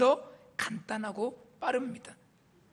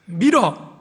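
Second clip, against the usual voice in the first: 1 luid antwoord; 8 dB louder, much slower than usual. Retold or imitated. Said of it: "물어보니까".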